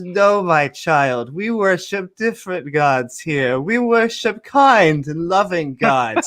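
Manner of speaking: slow, gentle reassurance; lightly voiced kindly king; soothing father. Pharaoh calms his frightened son, slowly and soothingly.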